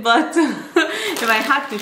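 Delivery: slow words through a laugh. Real, not acted. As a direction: chuckle as you say it. Laughing mid-sentence.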